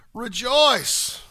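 proclaimed. Retold or imitated. Quoting Paul's command with emphasis.

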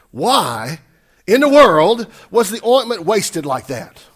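loud, drawn-out outraged question; indignant. Acted. Disciples complain about the wasted ointment, indignant. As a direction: build from an emphatic WHY into slow indignation. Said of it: "said to themselves indignantly".

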